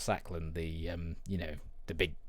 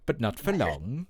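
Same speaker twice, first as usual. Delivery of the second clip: put-on Welsh accent; 3 semitones higher, 3 dB louder than usual. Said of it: "I've turned into, like, Welsh then".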